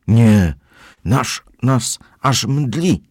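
put-on boys answering together, high and drawn out; voiced as the boys in chorus, slowly. A narrator's reading. Boys answer the housekeeper together, high and slow. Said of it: "chórem odpowiedzieli chłopcy".

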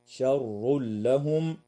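شر لهم with the tanween merged into the lam, no nasal hum; idgham without ghunna. Shown as a demonstration. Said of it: "ويدغم التنوين في اللام من غير غنة". (إدغام التنوين في اللام بلا غنة)

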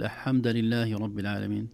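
الحمد said as لحمد, dropping the vowel of the article; a careless reciter saying لحمد; wrong pronunciation demo. Shown as a demonstration. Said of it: "لو قال". (نطق خاطئ لكلمة الحمد)

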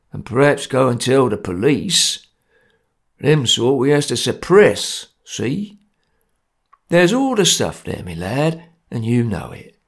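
gruff, menacing cockney; grim threat. Acted. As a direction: lay down the law grimly. Jerry grimly threatening.

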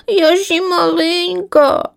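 high, slow squeaky chick; slow, high little squeak. A narrator's reading. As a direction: squeak it out like a tiny scared bird. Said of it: "запіщала лінивка".

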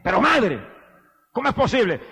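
a son's cry, hammed up only mildly; retold cry. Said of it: "Y el muchacho sacó un grito".

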